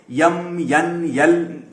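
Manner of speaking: "یم، ین، یل" each begun with a y glide; southern Indian letter names "یم، ین، یل"; regional mispronunciation. Retold or imitated. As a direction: put a y before each: "یم، ین، یل". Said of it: "یہ غلط pronunciation ہے".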